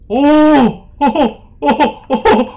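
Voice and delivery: high, loud repeated hoots; excited hooting. Real, not acted. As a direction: hoot in alarm and thrill. Reacting to jumpscare while hiding.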